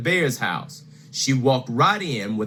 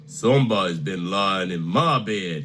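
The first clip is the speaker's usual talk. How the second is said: Papa Bear; 5 semitones lower than usual. Acted. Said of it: "he cried".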